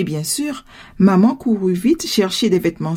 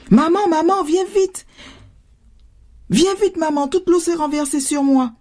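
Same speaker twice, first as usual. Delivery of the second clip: put-on high, distressed little-girl call; urgent cry for mom; 7 semitones higher than usual. A narrator's reading. Drenched daughter calls her mother, urgently. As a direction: cry for help in a high child's voice. Child urgently cries for help.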